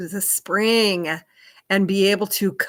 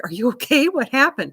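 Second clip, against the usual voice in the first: acting out a concerned question, higher and louder; mock worried check-in, pitched up; 6 semitones higher, 5 dB louder than usual. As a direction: imitate someone asking urgently what's wrong. Retelling husband's worried reaction.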